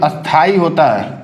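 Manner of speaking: अस्थाई said slowly, syllable by syllable; careful correct pronunciation. Shown as a demonstration. Teacher corrects spelling for students, slow careful pronunciation. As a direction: draw out अस्थाई as a careful model. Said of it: "ई नहीं होता उसमें".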